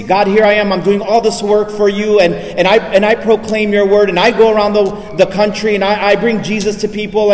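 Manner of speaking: insistent, stumbling mock rant at heaven; indignant protest to God. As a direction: protest as a deacon mad at God, in a mildly heated retelling. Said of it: "just went crazy".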